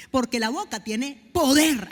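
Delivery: slow, weighty, falling on poder; slow emphasis. Shown as a demonstration. Preacher tells the church the mouth has power, slow and weighty. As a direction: lay down each word slowly. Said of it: "Acuérdense que la boca tiene poder".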